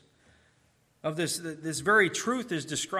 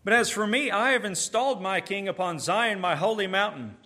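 God declaring; 5 semitones higher, 5 dB louder than usual. Acted. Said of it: "I" there is very emphatic".

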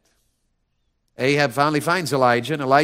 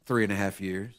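low, soft pulpit answer; hushed emphasis; 7 semitones lower, 10 dB quieter than usual. Real, not acted. Preacher answers his own question to church, hushed. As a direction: drop to a hush on it.

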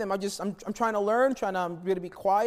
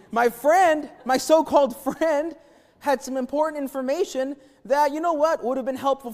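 higher, louder, mock-bitter sarcasm on so-called; sarcastic jab; 5 semitones higher, 3 dB louder than usual. Real, not acted. Preacher mocking the friend who never warned him, sarcastic and louder. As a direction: lean into the sarcasm, half laughing.

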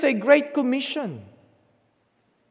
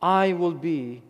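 soft promise; 9 semitones lower, 7 dB quieter than usual. Shown as a demonstration. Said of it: "Not maybe or perhaps, but certainly".

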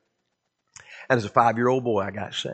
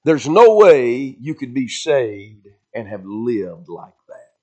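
devil's accusation; 4 dB louder, slower than usual. Retold or imitated. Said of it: "here's what the devil put in my mind".

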